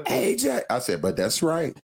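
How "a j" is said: stunned. Retold or imitated. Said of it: "I was like".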